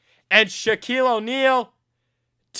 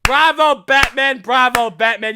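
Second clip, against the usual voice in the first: mock cheering; 4 dB louder than usual. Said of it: "I could just go like this".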